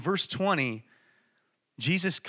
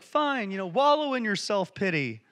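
acted curt brush-off, higher pitch; dismissive father; 5 semitones higher than usual. Father answering the sulking older brother, dismissive. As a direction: imitate a fed-up parent giving up. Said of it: "father could have easily been like".

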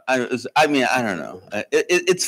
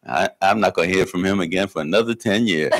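laughing; 4 semitones lower than usual. Retold or imitated. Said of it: "He's laughing".

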